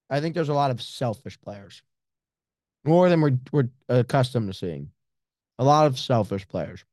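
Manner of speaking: talking around a mouthful of candy; chewing while talking. Real, not acted. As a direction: chew candy as you speak. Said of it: "I'm chewing on a Sour Patch Kids watermelon".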